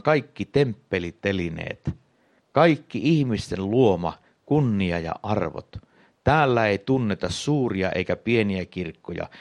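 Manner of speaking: measured, ringing pronouncement; sonorous proclamation. A narrator's reading. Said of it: "julisti sointuvalla äänellä".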